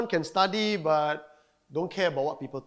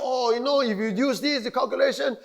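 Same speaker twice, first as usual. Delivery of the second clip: raised, loud know-it-all imitation; mock date-calculator; 7 semitones higher, 5 dB louder than usual. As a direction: act out someone eagerly explaining their prediction. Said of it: "People calculate". (menirukan peramal tanggal yang bersemangat)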